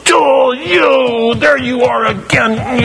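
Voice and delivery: mock-dismissive God spotting a sinner, high shout; careless God. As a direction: toss it off like a bored judge flicking an ant.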